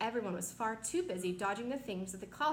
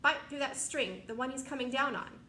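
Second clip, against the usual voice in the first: yelling; 4 semitones higher than usual. Acted. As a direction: snap it at the centipede. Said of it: "yelled James".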